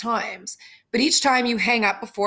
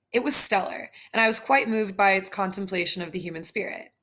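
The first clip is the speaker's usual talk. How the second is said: stiff robotic, formal delivery. Acted. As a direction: recite it like a robot. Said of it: "Why are you talking like that".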